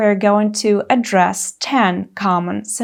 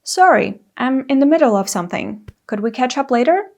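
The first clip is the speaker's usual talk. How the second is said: quick, polite excuse; polite deferral; polite apology; faster than usual. Shown as a demonstration. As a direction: apologise and hurry on kindly. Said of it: "What you say is".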